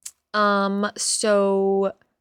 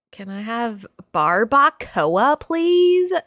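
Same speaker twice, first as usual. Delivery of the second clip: gringa ordering; 4 dB louder, much slower than usual. Shown as a demonstration. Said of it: "that's exactly how I say it".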